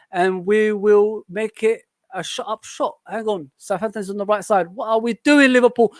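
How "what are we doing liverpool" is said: exasperated football fan shouting; frustrated fan shout. Real, not acted. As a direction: bark at your team in disbelief. Fan yelling at match.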